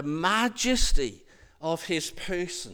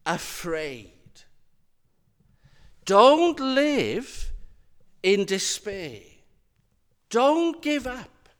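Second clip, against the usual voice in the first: loud, raised punch on each don't; emphatic command; 3 semitones higher, 6 dB louder, slower than usual. Acted. Jesus urging his disciples, loud emphatic don'ts. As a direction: hammer every don't, then let it fall.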